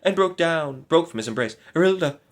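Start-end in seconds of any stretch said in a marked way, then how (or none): 1.7-2.2 high, loud fervent call; fervent cry. A narrator's reading. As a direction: plead her name with fervor. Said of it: "cried the knight with fervor".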